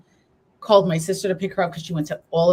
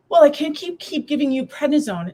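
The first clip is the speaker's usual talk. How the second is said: lightly voiced nurse, higher pitched; higher-pitched retelling of a reluctant nurse; imitating the nurse; 8 semitones higher than usual. Nurse refusing more prednisone, lightly imitated in higher pitch.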